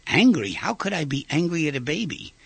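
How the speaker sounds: a mother scoffing at the idea; mock shocked disbelief; incredulous. Mother answers therapist, incredulous.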